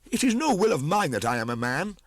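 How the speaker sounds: high, loud and strained; Mowgli's pained cry. A narrator's reading. Mowgli tells the pack he never wished to be man. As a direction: protest the fate you never chose.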